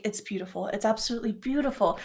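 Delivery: soft, jaw-dropped admiration; quietly awestruck. Acted. Gris sees Leon in the new dress, quietly awestruck. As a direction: let the praise out softly, in awe. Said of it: "just jaw dropped".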